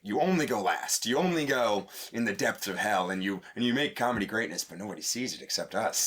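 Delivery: talking through clenched teeth; words squeezed through gritted teeth. Real, not acted. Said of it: "Why are you talking through your teeth like that?".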